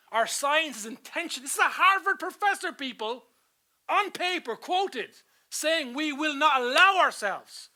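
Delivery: high, loud, punched phrases; emphatic preaching. Acted. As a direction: hammer each phrase at the congregation. Preaches at raised force.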